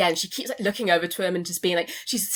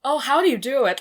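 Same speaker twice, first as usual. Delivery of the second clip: higher, put-on rich American lady voice; 5 semitones higher than usual. Meredith greeting Tom in a rich American voice. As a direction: gush it like a rich American socialite. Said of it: "that rich American voice that she does".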